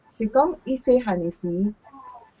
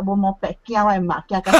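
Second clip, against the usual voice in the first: talking through laughter; amused telling; 3 dB louder, faster than usual. Real, not acted. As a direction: tell it while starting to laugh. Joking about fear of mother.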